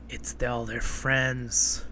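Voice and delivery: hushed, slow gasp before the reveal; gasp, then drop to a stunned hush; a slow, quiet, mock-shocked reveal. Dramatic reveal in the story.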